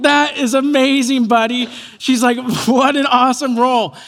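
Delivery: gushing encouragement; encouraging mom. Retold or imitated. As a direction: imitate a mom cheering on her kid. Mom praises her little boy.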